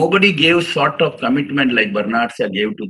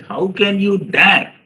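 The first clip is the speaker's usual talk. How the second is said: indignant, slow and higher-pitched retort; agitated lady; 7 semitones higher, slower than usual. Retold or imitated. Lady rebuking Bernard Shaw's indecent offer, agitated. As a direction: act out the lady's offended outrage. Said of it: "this lady got agitated".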